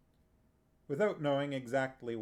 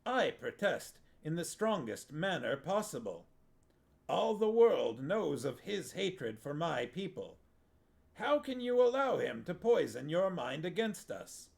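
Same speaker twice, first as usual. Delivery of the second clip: rising, indignant appeal to a king; indignant protest; 5 semitones higher than usual. A narrator's reading. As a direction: protest hotly, pitch climbing. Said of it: "Natchak appealed to the king".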